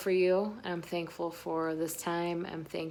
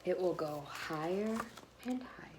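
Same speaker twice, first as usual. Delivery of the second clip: fading away; 8 dB quieter than usual. A narrator's reading. Kite rising, voice fading.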